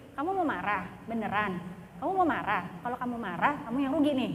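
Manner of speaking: lightly acted low self-talk; talking to oneself. Shown as a demonstration. Teacher reasons with herself when angry, low self-talk. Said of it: "saya langsung komunikasi kepada diri saya sendiri".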